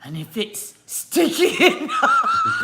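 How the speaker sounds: high, slow, laughing mimic; mocking bomb expert. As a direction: ham up the expert's line. Imitating the bomb disposal guy.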